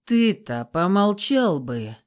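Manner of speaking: slow, clenched retort; man snaps at his grinning friend; through gritted teeth. Acted. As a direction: squeeze the words out through the teeth. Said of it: "процедил сквозь зубы Яр".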